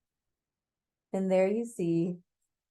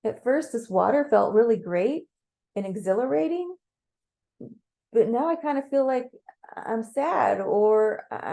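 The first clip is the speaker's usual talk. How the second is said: higher, hesitant, acted confusion; mildly overwhelmed; 4 semitones higher than usual. You confessing to Mars underwater, unsure and overwhelmed. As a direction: falter and restart, a touch lost.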